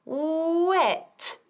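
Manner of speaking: "Wet" with the T crisp at the end; clear final t. Shown as a demonstration. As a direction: land the T of "Wet" cleanly. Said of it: "quiero oír la T al final". ("Wet" con la T final bien audible)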